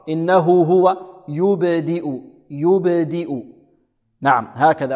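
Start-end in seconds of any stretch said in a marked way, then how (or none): 0.1-3.3 "يبدئ" with the b released in a small echo; qalqala on the ba. Shown as a demonstration. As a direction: slowly recite "يبدئ" with a bounce on the silent ب. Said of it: "هكذا اضطراب المخرج". (قلقلة الباء الساكنة في "يبدئ" بتمهّل)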